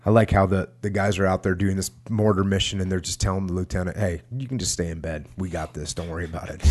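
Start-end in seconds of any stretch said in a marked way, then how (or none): 4.0-6.6 softer, lower, offhand soldier's reassurance; casual mock reassurance. Soldiers telling the lieutenant to stay in bed, casually reassuring. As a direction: brush it off quietly, imitating an unbothered soldier.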